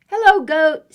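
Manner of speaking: high, loud little duck; cheery duck greeting. Acted. Duck greets goat from the bike, high duck call. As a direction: pitch it up and call out.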